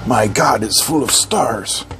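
slow, low hushed awe; film quote awe. Acted. Reviewer peers inside quoting Space Odyssey, low mock awe. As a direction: intone it with mock wonder. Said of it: "Space Odyssey reference for you".

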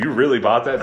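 gently incredulous, evenly pitched question; milder disbelief. Shown as a demonstration. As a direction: ask it with only mild surprise. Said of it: "I said that very condescendingly".

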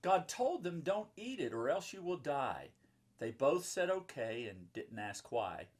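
put-on reading to children. A narrator's reading. Mom reading a Bible picture book to children, lively rhyming read-aloud. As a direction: bounce the rhymes for the kids.

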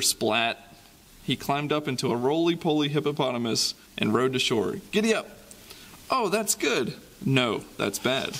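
lively storybook reading with sound effects; reading to children. Acted. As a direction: read it like a bedtime picture book for kids. Reading picture book to children.

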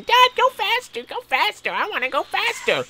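put-on high, pleading little boy; whiny kid voice. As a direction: beg like an impatient child. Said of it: "He was saying".

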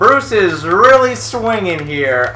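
vintage fight commentary, drawn out; old-timey boxer announcer. Pretend. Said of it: "old-timey boxer announcer".

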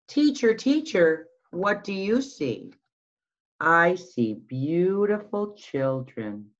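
put-on sing-song storytime voice for little kids; picture book read-aloud. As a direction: read it like circle time, lilting and slow. Reading picture book aloud to children.

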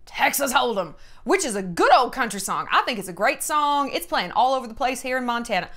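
hammed-up country-music Texas accent. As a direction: keep up a put-on Texas twang. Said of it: "I don't know that I can keep that up".

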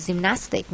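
"gymnastic" stressed on the second syllable. Shown as a demonstration. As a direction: say "gymnastic" with the weight on -NAS-. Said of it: "nhấn âm hai".

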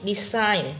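"decide" with the stress on CIDE; stress on second syllable. Shown as a demonstration. Teacher confirming the answer, "decide" stressed on CIDE. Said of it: "nhấn vào âm hai".

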